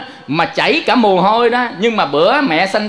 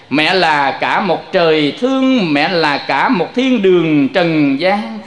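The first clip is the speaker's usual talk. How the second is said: slow, drawn-out lines of verse about mother; recited folk poem; slower than usual. Acted. Monk reciting a folk verse to the congregation, slow and tender. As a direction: savour each line of the ca dao slowly. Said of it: "người ta thường hay nói những cái lời mẹ".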